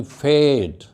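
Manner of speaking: "fade" with a long A; teacher's held vowel in "fade"; long A demo. Shown as a demonstration. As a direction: model "fade", vowel as in "day". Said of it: "When we use A in the middle".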